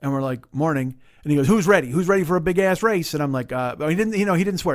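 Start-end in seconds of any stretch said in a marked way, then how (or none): 1.5-3.1 high-pitched pep-rally call; rally them like an eager race fan; enthusiastic hype. Retold or imitated. Stranger pumps up two racers, enthusiastic. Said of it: "He's all enthusiastic and inspired".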